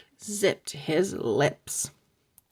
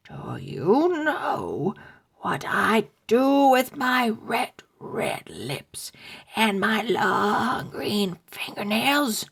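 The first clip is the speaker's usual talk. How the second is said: zombie voice; 3 semitones higher than usual. Acted. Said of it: "Her voice was like dead bones rattling".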